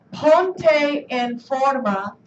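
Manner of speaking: ponte en forma repeated slowly and evenly. Shown as a demonstration. Teacher repeating ponte en forma slowly for students.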